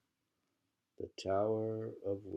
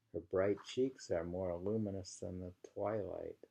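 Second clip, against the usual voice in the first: poetry reading. Acted. Reading a love poem aloud to her co-host, measured and lingering. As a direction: savour each image of the poem.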